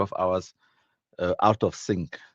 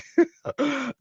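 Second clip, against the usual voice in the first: sudden high giggle; short high-pitched laugh. Real, not acted. Laughing at a funny comment.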